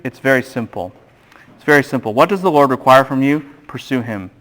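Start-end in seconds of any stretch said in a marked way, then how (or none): 3.7-4.3 emphatic softening. Shown as a demonstration. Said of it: "repeated for emphasis".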